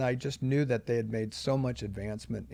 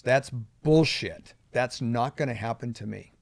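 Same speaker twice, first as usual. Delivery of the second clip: said out loud; 5 dB louder than usual. Retold or imitated. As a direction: tell yourself off out loud. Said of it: "had to say out loud to myself".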